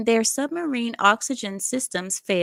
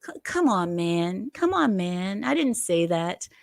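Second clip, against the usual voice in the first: Biden impression. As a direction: brush off the reporter like an old president. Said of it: "What's Biden?".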